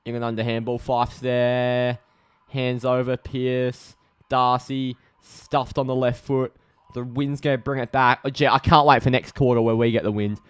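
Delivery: steady footy commentary; live match call, names stretched out; live play-by-play. Real, not acted.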